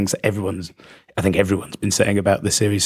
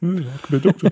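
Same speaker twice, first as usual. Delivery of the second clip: lightly voiced surly schoolboy; 6 semitones higher, faster than usual. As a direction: echo it like a cheeky pupil. Mocking schoolboy echo.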